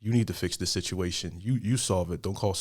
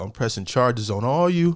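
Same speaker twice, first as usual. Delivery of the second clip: Denzel; 4 semitones higher, 6 dB louder than usual. Retold or imitated. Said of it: "You sound like Denzel".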